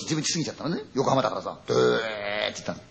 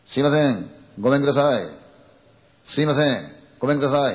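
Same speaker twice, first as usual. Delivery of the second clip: raised voice calling through a closed door; 3 dB louder than usual. Retold or imitated. Young man calls at the dead girl's apartment door, raised polite call. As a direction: call out politely, but loud enough to carry.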